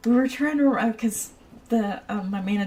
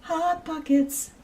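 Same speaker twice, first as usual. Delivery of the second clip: mock jingle; 8 semitones higher, 3 dB louder, slower than usual.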